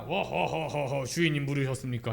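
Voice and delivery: hammed-up genie servant. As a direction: play a big genie appearing from the lamp. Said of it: "막 지니가".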